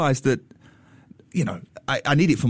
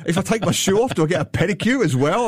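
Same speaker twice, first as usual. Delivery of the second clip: flippant; 5 semitones higher than usual. Retold or imitated. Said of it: "all flippantly".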